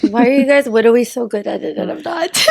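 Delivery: put-on a light baby voice; playful childish whine. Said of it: "You sound like a baby".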